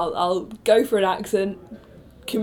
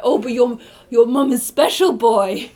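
overbearing mother; 3 semitones higher, 4 dB louder than usual. Retold or imitated.

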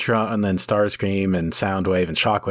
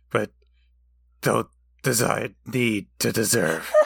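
Christian Bale growl. Retold or imitated. Optimus yelling at Megatron, hammed-up Bale growl. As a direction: overdo a rough Batman-style rasp. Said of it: "he turns into Christian Bale".

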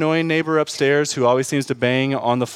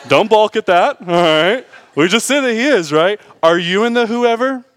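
laughing challenge; 8 semitones higher, 5 dB louder than usual. Real, not acted. Laughing, rising preaching.

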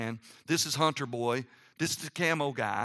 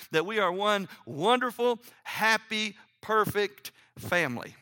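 raised pitch, building list; mock-idyllic buildup; 4 semitones higher than usual. Real, not acted. Preacher recalling the perfect Christmas photo plan, mock-idyllic. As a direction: paint the dream in a lifted, sustained voice.

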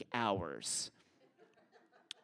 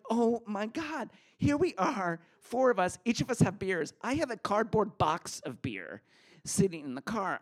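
much higher and louder frantic panic; 6 semitones higher, 6 dB louder than usual. Retold or imitated. Teen caught with beer panicking as the police arrive. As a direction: rattle off the trouble in alarm.

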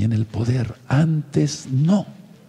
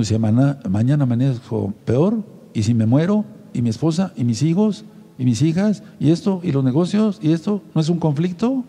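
mock worried inner voice; 3 semitones higher than usual. Preacher voicing a sick believer's fears, mildly worried. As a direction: voice the anxious what-ifs of a sick man.

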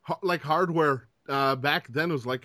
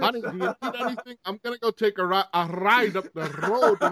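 mock suave guy; 4 semitones higher than usual. Mock smooth guy to lady.

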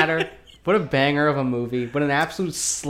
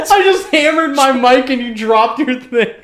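high laughing words; 10 semitones higher, 4 dB louder than usual. Real, not acted. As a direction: giggle through it. Laughing at a mishap.

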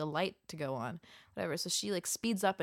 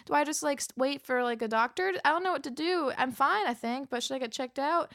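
flustered self; 7 semitones higher, 6 dB louder than usual. Retold or imitated. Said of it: "I was like".

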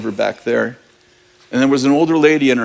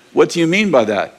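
incredulous repeat; 3 semitones higher than usual. Retold or imitated. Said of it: "the standard answer is yes or no".

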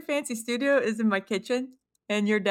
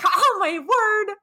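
mock dismay; 10 semitones higher, 4 dB louder, much slower than usual. Mother retells her shocked reaction.

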